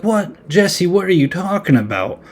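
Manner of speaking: high-pitched startled what; shocked disbelief. Retold or imitated. Lisa reacting to the confession with shocked disbelief. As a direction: Lisa hearing Jesse's confession, caught off guard and pitched high.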